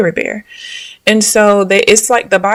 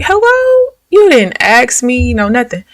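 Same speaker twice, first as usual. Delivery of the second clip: indignant; 5 semitones higher, 5 dB louder than usual. Retold or imitated. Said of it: "I'm like, like".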